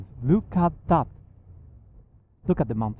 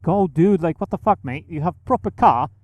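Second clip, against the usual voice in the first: real annoyed rant from behind the wheel; exasperated rant; 4 semitones higher, 4 dB louder than usual. Real, not acted. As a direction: vent at the driver who won't speed up. Ranting at slow driver.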